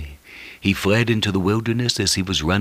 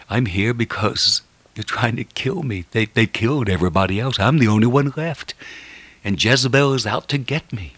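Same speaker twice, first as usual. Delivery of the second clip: higher-pitched, mildly plaintive retold plea; downhearted complaint; 5 semitones higher than usual. Poor Elijah answering God about being hunted, mock downhearted plaint. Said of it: "poor Elijah was so downhearted and discouraged".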